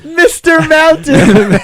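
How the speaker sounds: laughing. Real, not acted.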